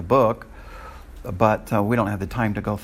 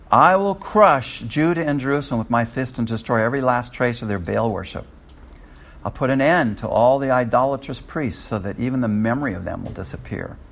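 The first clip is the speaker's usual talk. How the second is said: forceful scripture reading. A narrator's reading. Preacher reading God's threat against Judah, forceful. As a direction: read God's judgment out with force.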